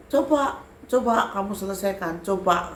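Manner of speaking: high, punchy dare; acted challenge. Spirit daring the teller to settle it, high taunting challenge.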